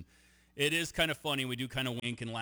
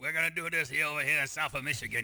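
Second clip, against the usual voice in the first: loud, hammed-up Michigan accent; over-the-top Michigan accent; 3 dB louder than usual. Cohost mocks Michigan reps on air in a hammed-up Michigan accent. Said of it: "I can't do a Michigan accent".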